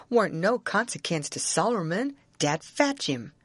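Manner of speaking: lightly voiced dialect of an insistent Jim; Jim arguing his point. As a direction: argue it in Southern dialect, pitch jumping on key points.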